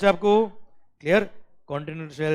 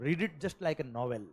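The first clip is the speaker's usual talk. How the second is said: gentle advice; 2 semitones lower, 8 dB quieter, much slower than usual. Shown as a demonstration. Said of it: "मैं guarantee से कह रहा हूँ".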